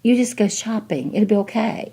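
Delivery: light singsong brush-off; a hint of a dismissive doctor; mildly voiced condescension; mock patronizing doctor. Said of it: "he does this little".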